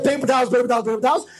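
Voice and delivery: quick, confident run of repeats; brisk, bouncy listing; rattled-off repetition. Acted. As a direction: rattle it off evenly, pleased with the plan. Confident demo of pocket trick.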